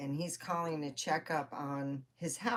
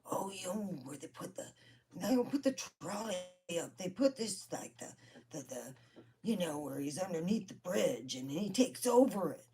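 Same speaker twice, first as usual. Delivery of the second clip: hushed, stop-and-start imitation; broken, halting talk; 2 semitones higher than usual. Uncle struggling to explain trolls on the phone, broken and halting. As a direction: fumble for the words in fragments. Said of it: "he starts talking this broken".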